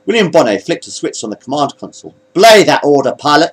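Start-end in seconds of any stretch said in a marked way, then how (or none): 2.3-3.5 firm, higher-pitched counter-order; commanding. A narrator's reading. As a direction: override the order firmly. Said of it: "he commanded".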